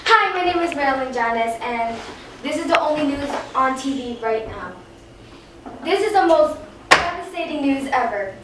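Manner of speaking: measured mock TV news read; news anchor. Young anchor announcing social media is gone, news anchor. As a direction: deliver it as dramatic breaking news.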